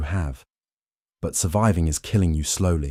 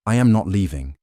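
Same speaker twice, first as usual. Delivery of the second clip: firm insistence; 2 semitones higher, 4 dB louder than usual. Acted. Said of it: "you say again".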